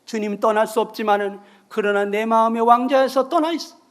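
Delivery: ordinary delivery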